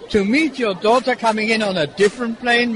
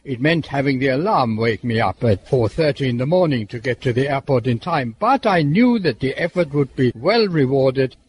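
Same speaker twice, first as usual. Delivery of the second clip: measured, lower-pitched scripted read; radio report narration; 8 semitones lower than usual. Acted. Presenter telling listeners about the airport arrivals, scripted report narration.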